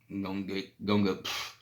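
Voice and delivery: talking through a swollen mouth; words thick from a swollen jaw. Real, not acted. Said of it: "It's just hard to talk when your mouth is swollen".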